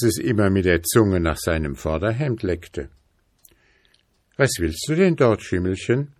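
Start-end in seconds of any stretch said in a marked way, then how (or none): 4.4-5.4 put-on a gentle, pitying boy's question; lightly voiced boy, higher and pitying. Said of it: "fragte der Junge mitleidig". 5.4-6.1 put-on gentle rising "Schimmelchen?" from a worried boy; pitying. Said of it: "fragte der Junge mitleidig".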